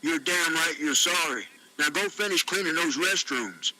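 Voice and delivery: mildly stern reprimand. Acted. Ron scolds Tony for slacking off, mildly stern. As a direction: order him back to work with understated sternness. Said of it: "Ron said with a stern tone".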